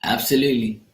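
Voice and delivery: hushed whispered agreement; just breathe the word. Real, not acted. Agreeing with viewers in a real whisper.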